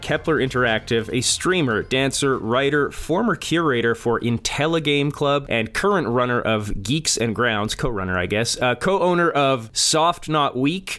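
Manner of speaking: rattling off a list without pausing; all in one breath. Real, not acted. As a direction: push through the whole list on a single breath. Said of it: "let's see if I can do this in one breath".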